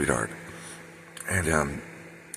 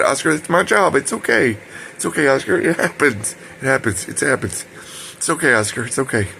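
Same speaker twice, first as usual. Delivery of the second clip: higher, insistent comforting, easing toward the end; retold reassurance; 6 semitones higher than usual. Helper telling Oscar not to worry about his accident, retold reassurance. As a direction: keep soothing him, pitched up and earnest.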